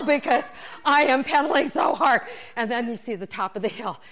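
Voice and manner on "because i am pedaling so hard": loud, higher mock exertion; straining complaint. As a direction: protest loudly while pumping uphill. Strains up the hill.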